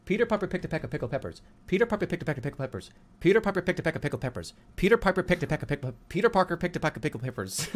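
fast, rattled-off patter; rapid tongue twister. Pretend. Player attempting a tongue twister, rapid patter. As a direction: race through it without a breath.

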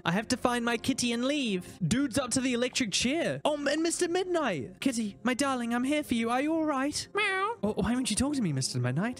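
put-on high, pleading girl voice; voicing young Fran. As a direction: play the frightened little girl.

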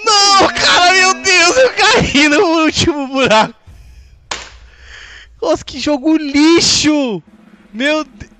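screaming in high frustration; raging gamer. Real, not acted. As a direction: scream it at the screen, losing it. Streamer falls, rages at game. (gamer furioso gritando agudo)

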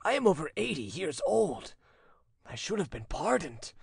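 put-on high-pitched, anguished old father; tearful voice. A narrator's reading. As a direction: beg forgiveness on the edge of tears. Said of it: "he said in a tearful voice".

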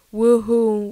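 joyful cheer mid-flight; gleeful whoop. A narrator's reading. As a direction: whoop it out as you're tossed into the air. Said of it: "Joke Joke exclaimed".

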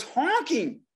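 high, far-off honking voice; lightly voiced honking; honking like geese. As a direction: mimic a horn squawking like twenty geese. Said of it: "honking like twenty geese".

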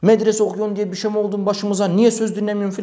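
angry yelling. Retold or imitated. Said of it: "Böyle bağırıyor".

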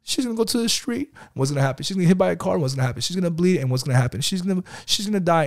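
put-on a little boy reciting the lesson; child voice. Son answering about sister.

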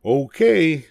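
high, perky monkey voice; little monkeys. Acted. Monkeys answering Mama, high and eager.

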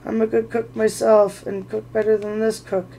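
gasping plea. Acted. Bilbo to Bert, a mildly frantic plea. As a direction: beg them not to cook you. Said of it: "Bilbo gasping".

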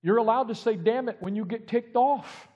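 1 God's voice. Retold or imitated. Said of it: "I have a God that looks at me and says".

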